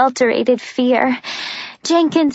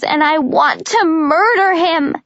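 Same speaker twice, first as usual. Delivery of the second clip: plain reading voice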